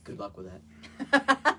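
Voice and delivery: mock doubtful, voice jumping high on that; teasing. Real, not acted. Husband teases wife about her brow healing, squeaky and doubtful.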